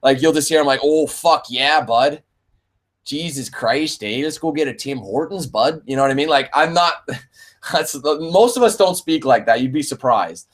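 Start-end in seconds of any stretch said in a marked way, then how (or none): 0.8-5.8 mock Canadian drawl, light and jokey; stereotypical Canadian accent. Streamer mocking how stereotypical Canadians talk, lightly hammed Canadian accent. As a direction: imitate a hoser with a hint of Canadian. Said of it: "a few people who do speak super Canadian".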